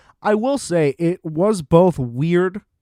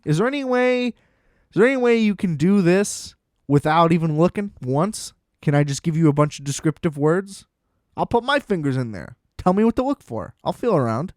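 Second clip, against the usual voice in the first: pleading, higher; 3 semitones higher than usual. Retold or imitated. Pleading patient request.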